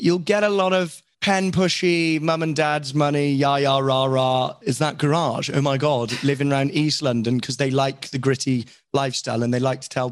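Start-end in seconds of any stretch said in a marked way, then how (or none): 0.0-7.4 lightly mocked middle-class Londoner, pitched a bit up; a hint of a yah-yah rich-kid impression; middle-class London type. Actor ridiculing moneyed East London types, lightly mocking middle-class voice. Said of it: "a lot of middle class people glamorize it".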